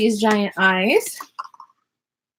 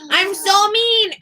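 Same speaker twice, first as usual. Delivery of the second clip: mock self-scolding; 7 semitones higher, slower than usual. Real, not acted. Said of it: "mean mommy voice".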